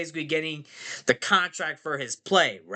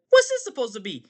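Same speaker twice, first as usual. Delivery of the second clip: higher, louder wise guy rat; Rizzo the Rat; 7 semitones higher, 5 dB louder, faster than usual. Acted. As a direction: demand it in a pushy cartoon rat voice. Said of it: "Rizzle the Rat's like".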